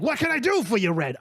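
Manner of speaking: high, put-on welcome; beholder boss greeting. Lellard greets the visitor at his door, high-voiced. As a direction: pitch it up as a bookie hailing a customer. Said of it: "he's like".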